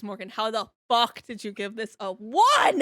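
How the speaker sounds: mock outrage building to a loud final word; all-caps outrage. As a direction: retell an all-caps text, punching the end. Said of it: "I said, in all caps".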